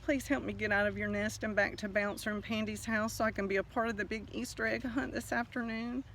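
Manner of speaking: a touch of fear, begging gently; frightened begging. Acted. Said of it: "The frightened Easter egg begged".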